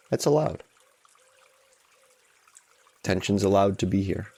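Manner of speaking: unhurried guidance with long pauses; guided meditation. Real, not acted. Teacher guiding a group to allow tension, unhurried guided meditation. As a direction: ease listeners into it, leaving space between phrases.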